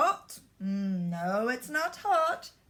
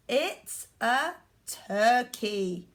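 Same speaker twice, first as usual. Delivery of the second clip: slow model answer; slower than usual. Shown as a demonstration. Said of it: "What is it?".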